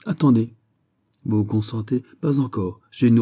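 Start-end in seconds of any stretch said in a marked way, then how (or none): 0.1-0.6 a sudden, louder higher call; sudden stop. Acted. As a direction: cut in abruptly to hold him back. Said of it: "puis tout à coup". (un «attendez» soudain, plus haut et plus fort)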